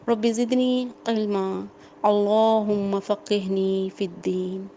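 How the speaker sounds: slow, measured Arabic supplication; prayer recitation. Acted. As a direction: recite the prayer slowly and devoutly.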